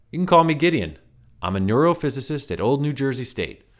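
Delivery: high reedy self-introduction; smug strange scientist; light reedy Gideon. A narrator's reading. Gideon introducing himself to Ryan, high reedy voice. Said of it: "light, reedy voice".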